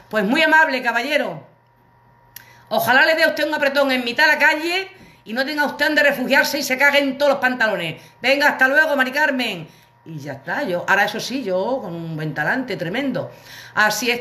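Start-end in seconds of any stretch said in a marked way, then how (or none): 0.1-9.7 1 sarcastic farewell. Retold or imitated. Telling off the unhelpful doorman.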